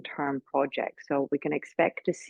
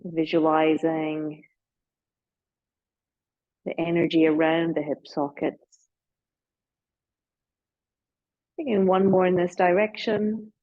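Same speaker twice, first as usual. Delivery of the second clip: guided meditation. Real, not acted. Guides slow movement, eyes closed.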